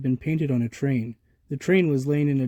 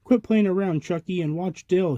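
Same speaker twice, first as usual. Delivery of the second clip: annoyed scolding; 5 semitones higher than usual. Acted. Tommy scolds Chucky.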